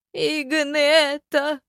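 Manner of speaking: slow, high skeleton hiss. A narrator's reading. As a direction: hiss the name out slowly. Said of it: "прошипел бывший разбойник".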